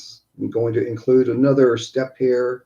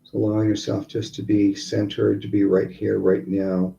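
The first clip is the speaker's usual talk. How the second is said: guided meditation. Acted. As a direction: count them calmly through each breath. Leads breathing exercise.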